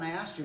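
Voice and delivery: slight stress on "asked", voice still nice; a little emphasis. Shown as a demonstration. Reminding someone already told once, "asked" lightly stressed. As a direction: lean gently on "I asked you". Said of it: "a little emphasis on".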